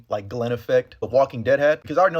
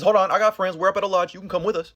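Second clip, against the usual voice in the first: bright, louder eager pitch; eager offer; 5 semitones higher, 4 dB louder than usual. Retold or imitated. Abby luring Joel and Dina to her lodge, pushy friendly.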